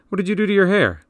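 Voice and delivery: surprised. A narrator's reading. Brother startled by new haircut.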